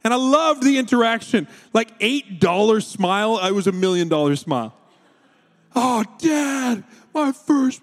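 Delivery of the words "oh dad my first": put-on high, bright squeal of a thrilled little boy; excited child. Dad retelling son's thanks, high excited child voice. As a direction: gush it like a three-year-old. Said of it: "he's so excited".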